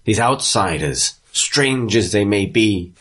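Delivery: measured speech with pauses; addressing a crowd. Acted. Town leader addressing the crowd about strangers, measured oratory. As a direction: address the townsfolk, slowing on key phrases. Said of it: "he's addressing the crowd".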